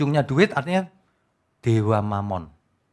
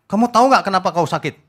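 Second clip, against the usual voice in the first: mock preacher; 4 semitones higher, 4 dB louder than usual. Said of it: "Kemarin ada yang kirimin saya begini".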